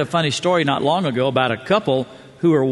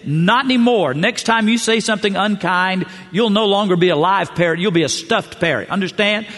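raised, scolding owner; angry store owner; 3 semitones higher than usual. Acted. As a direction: threaten the parrot, voice pitched up and pushed. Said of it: "shook it and said".

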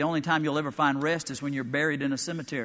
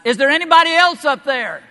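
high, loud frantic relief; desperate man calling up the cliff; 11 semitones higher, 12 dB louder than usual. Acted. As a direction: gasp it out, relieved and panicked.

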